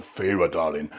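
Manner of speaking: deep, slow seductive murmur; sultry Rhysand voice. Retold or imitated. Husband mimicking Rhysand wooing Feyre, deep seductive murmur. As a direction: purr her name low and slow like a fae lord. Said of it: "That's all I said".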